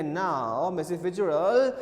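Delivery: slow, firm, mock-stern insistence; measured, drawn-out acted severity; retold stern surliness. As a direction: imitate a mother putting her foot down. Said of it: "said surly का मतलब कठोर होते हुए कहा".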